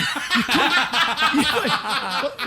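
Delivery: high, loud, can't get the words out; helpless laughter choking the words; laughing. Real, not acted. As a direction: break down laughing mid-sentence. Cracking up over the clip.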